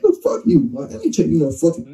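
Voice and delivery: high-pitched mock-outraged dismissal; retold indignant refusal. Man retelling his refusal of a hospital plea, indignant. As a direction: jump up in pitch to act out refusing. Acted angry refusal to wounded intruder.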